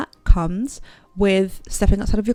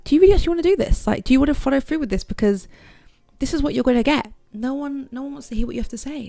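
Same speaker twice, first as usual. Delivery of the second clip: high, fast, anxious self-talk; higher and faster, panicked self-questioning; frantic inner voice; 6 semitones higher, faster than usual. Retold or imitated. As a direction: rattle off your doubts in a rush. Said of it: "I was really telling myself".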